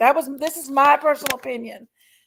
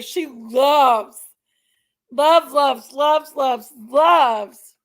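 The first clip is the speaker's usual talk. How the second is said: playful repetition; 5 dB louder, much slower than usual. Real, not acted. Repeating word playfully.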